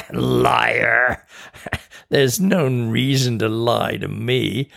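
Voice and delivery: a mocking laugh around the word Liar; laughing taunt. Imp laughing at Tina's denial, mocking. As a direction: jeer at her.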